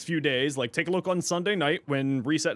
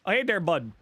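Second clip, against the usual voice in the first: lightly voiced Canadian hick; Canadian hick accent; 4 semitones higher than usual. Shown as a demonstration. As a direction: greet a buddy in rural Canadian twang. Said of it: "What does a Canadian hick sound like?".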